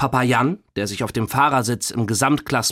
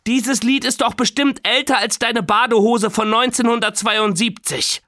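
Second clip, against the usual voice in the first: put-on teasing girl; 10 semitones higher than usual. A narrator's reading. Nora teases grandpa.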